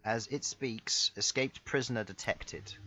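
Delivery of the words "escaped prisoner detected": flat robotic monotone. Acted. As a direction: announce it like a machine. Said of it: "A robotic voice".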